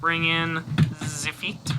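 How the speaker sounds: slow, mock French accent. Reviewer walking viewers through a toy transformation, playful French accent. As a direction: lightly put on a French accent, drawn out. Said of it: "Sorry for the French accent".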